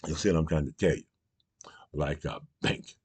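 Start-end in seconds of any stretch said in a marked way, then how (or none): 1.9-3.0 whispered aside. Real, not acted. Aside in rant.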